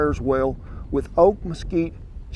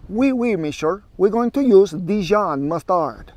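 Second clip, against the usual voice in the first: lightly hammed-up French accent; a playful fake French chef, slowed down; mock French accent; 3 semitones higher than usual. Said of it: "Let's do French".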